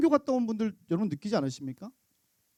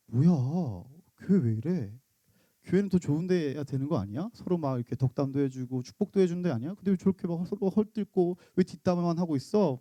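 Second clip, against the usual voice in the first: 못마땅한 딸; 3 semitones lower than usual. Retold or imitated. Daughter's disgusted inner voice.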